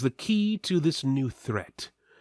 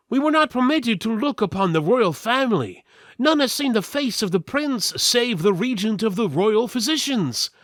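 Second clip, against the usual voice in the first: much higher and louder, rushed panic; flustered steward; 10 semitones higher, 6 dB louder than usual. Acted. The steward denying he knew of the prince, flustered and high. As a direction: sputter like a frightened courtier.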